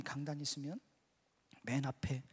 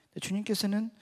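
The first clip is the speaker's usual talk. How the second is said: ordinary talk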